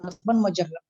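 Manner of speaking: audio cutting out; choppy connection breaking up; tape dropouts. Real, not acted. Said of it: "آپ کی آواز کٹ گئی تھی بیچ میں".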